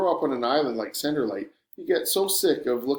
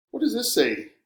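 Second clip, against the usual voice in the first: curious; 10 semitones higher than usual. A narrator's reading. Curious question, much higher.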